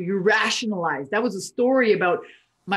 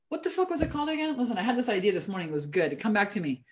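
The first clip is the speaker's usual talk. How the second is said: fast, softer aside; muttered aside; 5 dB quieter, faster than usual. Real, not acted. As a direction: mutter it quickly to yourself. Forgets name, mutters aside.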